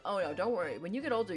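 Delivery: normal talking voice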